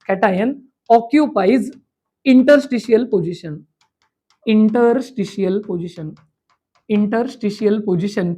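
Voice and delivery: drawn-out words with pauses between phrases; stretched, syllable-by-syllable teacher dictation; slow dictation. Shown as a demonstration. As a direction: dictate it very slowly for students writing. Teacher dictates key phrase for notes.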